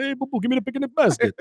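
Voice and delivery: high cartoon bear voice; chirpy cartoon bear begging a picnic basket; Yogi Bear voice. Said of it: "That's how Yogi would".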